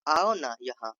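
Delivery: gently drawn-out affectionate request; loving, gentle. Shown as a demonstration. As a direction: coax them over tenderly. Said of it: "प्यार या नरमी के लहजे में".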